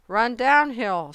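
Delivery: urgent animal's call; calling out advice. A narrator's reading. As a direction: shout directions across the farmyard.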